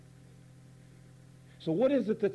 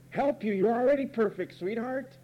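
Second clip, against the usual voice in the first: doting parent; 5 semitones higher than usual. Retold or imitated. Parents voiced doting on child.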